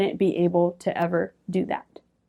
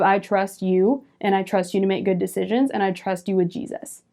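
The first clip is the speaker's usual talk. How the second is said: affirmations; 2 semitones lower, 3 dB quieter than usual. Retold or imitated. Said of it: "say my affirmations in the mirror".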